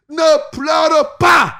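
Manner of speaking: slow, drawn-out gentle command; voicing Jesus. A hint of Jesus consoling the weeping woman, slow. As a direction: speak as Jesus stretching each word. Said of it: "quand Jésus-Christ a dit".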